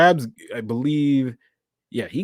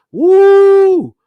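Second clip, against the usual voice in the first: a high, loud whoop of excitement; excited whoop; 14 dB louder than usual. Real, not acted. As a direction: let out a thrilled cheer. Hyped about the final minutes.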